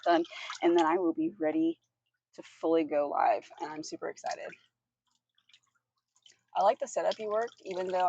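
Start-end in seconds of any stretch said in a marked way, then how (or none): 3.6-4.4 whispered eager aside; excited whisper. Real, not acted.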